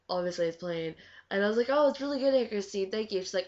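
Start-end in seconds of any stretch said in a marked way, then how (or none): 1.7-3.2 high, loud gushing thanks; overly sweet praise. Retold or imitated. Praising Aunt Christine's plain dinner, loud gushing thanks. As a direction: gush politely over bland food.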